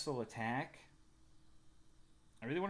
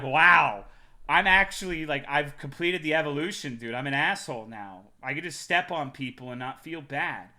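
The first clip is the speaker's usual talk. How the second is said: loud, hammed-up gloating; mock triumph; 2 semitones higher, 13 dB louder than usual. Streamer hamming up her inner gloat to chat, loud. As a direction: crow about becoming an asshole.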